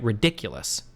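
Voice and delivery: ridiculous with "dic" stressed, falling after it; demonstrating where ridiculous takes its stress; stress on DICK. Shown as a demonstration. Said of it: "The accent would go over dick".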